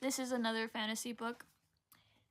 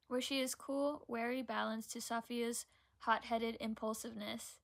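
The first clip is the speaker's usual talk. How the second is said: measured, even read-aloud voice; reading a book blurb. Acted. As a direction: read the back cover aloud evenly.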